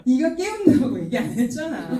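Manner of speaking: mildly indignant comeback; mock-cross retort; imitating angry mother. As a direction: play a mother snapping back, half in jest. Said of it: "더 나한테 화를 내더라고요".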